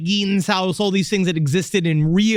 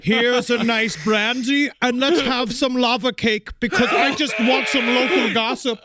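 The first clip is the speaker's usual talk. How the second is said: cool foreign spy menace; 4 semitones higher than usual. Pretend. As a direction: offer brandy like a polite villain. Villain host continues.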